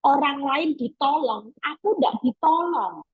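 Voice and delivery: hurt complaint. Retold or imitated. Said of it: "Mungkin Yairus juga lihat".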